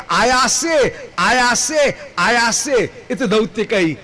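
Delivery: आयासे repeated slowly, each one stressed; emphatic repetition. Shown as a demonstration. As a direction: promise it three times over. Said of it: "बहुवचन के द्वारा ये दिखा रहे हैं".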